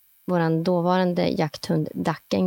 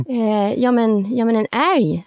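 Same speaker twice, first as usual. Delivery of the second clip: higher, louder hesitant call; called answer; 4 semitones higher, 5 dB louder than usual. Retold or imitated. Hunter calling her answer to her husband. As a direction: call back across the forest, unsure. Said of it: "svarar jag".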